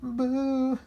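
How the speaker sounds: high loud yowling boo; monster boo. A narrator's reading. Monster scaring the dogs, high yowling boo. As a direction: spook them with a yowl. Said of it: "The monster yowled and hissed".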